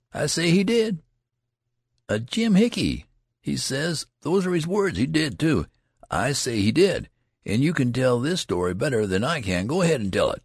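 high, heated rustic retort; touchy storyteller standing his ground; indignant insistence. A narrator's reading. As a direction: snap back at an interrupter. Teller quarrels with an interrupter.

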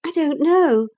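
put-on high, lively young girl; bright eager girl chiding her uncle. A narrator's reading. Young Catherine's voice.

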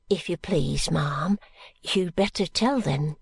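lightly voiced humble girl; young maid Charley. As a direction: answer respectfully, a bit shy.

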